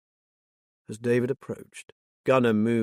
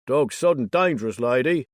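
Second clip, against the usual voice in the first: calling out; 2 semitones higher, 5 dB louder than usual. Acted. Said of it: "called out one man".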